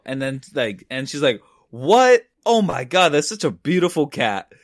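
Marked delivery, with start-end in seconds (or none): 1.7-4.5 mock gushing. Stranger shown a missing cat's picture, gushing. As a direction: gush in imitation of an astonished stranger. Woman gushes over cat picture.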